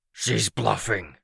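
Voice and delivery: slow hiss from the bottom of a well; hollow, slow villain hiss. A narrator's reading. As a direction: draw it out in a hissing creature voice. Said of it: "his voice like a hiss from the bottom of a well".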